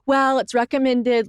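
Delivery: high, slow doctor impression; doctor's voice. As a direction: slowly imitate a cautious doctor's advice. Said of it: "what all doctors say".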